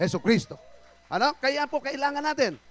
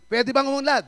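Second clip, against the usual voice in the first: asked again, louder and higher; 4 semitones higher, 5 dB louder, faster than usual. Shown as a demonstration. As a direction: push the question out loud to the church. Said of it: "Lakasan natin".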